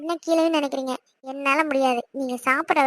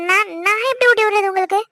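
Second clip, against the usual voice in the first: flustered stammer; 3 semitones higher, 5 dB louder than usual. Acted. Wife flustered by request.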